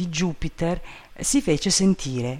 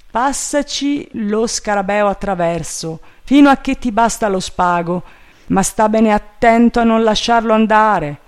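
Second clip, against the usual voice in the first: high, loud master voice; raised-voice command; urgent master Legrand; 7 semitones higher, 6 dB louder than usual. A narrator's reading. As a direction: call careful orders upward.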